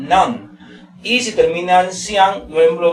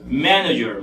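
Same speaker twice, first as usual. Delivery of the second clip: manager, first syllable strongest then falling; weight on the opening of manager; teacher's front-stressed manager; 3 semitones lower than usual. Shown as a demonstration. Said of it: "mayor fuerza de voz está en ma".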